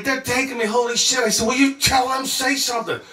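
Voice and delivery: high-pitched urgent pleading; acted-out desperate appeal for help; retold panic. Traveler begging friend as soldiers take him, panicked.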